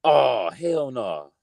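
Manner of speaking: slow drawn-out oh hell no, then high what; appalled, voice shooting up; outraged disbelief. Real, not acted. Outraged at Fresh Prince pick.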